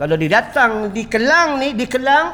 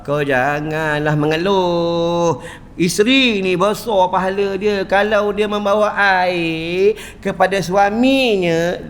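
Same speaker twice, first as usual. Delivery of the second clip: calm counsel; 2 semitones lower than usual. Acted. Prophet gently counsels his daughter.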